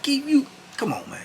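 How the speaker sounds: high whispered plea; pleading. Retold or imitated. Cellmate coaxing Keith to admit it, whispered. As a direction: coax him gently, under the breath.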